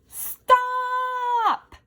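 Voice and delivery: high, full-throated roar; tiny ant roaring at an elephant. A narrator's reading. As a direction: roar it to stop a giant. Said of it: "she roared".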